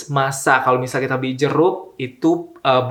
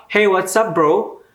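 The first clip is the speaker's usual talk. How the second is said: higher, breezy mock bro voice; casual American dude greeting; 5 semitones higher, slower than usual. A stranger on the street greeting you, mock bro voice. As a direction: toss it off like a laid-back American guy.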